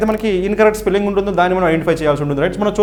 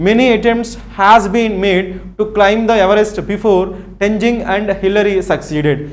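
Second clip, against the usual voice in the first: very slow, careful reading of the test sentence; much slower than usual. Shown as a demonstration. Teacher reading the exam sentence to students, very slowly. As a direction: lay the sentence out word by word.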